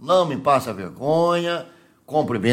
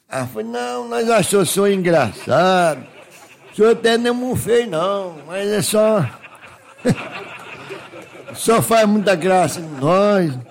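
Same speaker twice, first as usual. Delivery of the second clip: higher-pitched rustic storyteller; naive country bumpkin, bashful; 4 semitones higher than usual. Acted. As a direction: play a simple Minas countryman, embarrassed but proud. Countryman retells talk with the girls.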